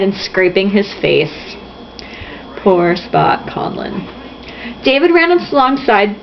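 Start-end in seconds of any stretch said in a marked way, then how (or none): 2.6-4.1 mock pity.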